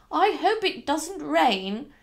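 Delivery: Mrs Lane's voice. Acted. Housekeeper seeing her young mistress off, high and slow. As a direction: draw it out high and swooping.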